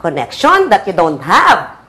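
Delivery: slow, drawn-out "Connection that you don't have"; natural tone demo. Shown as a demonstration. Director showing actress how to say her line, slow natural tone. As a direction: stretch the line out slowly, unforced. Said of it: "mga ganon, ha?".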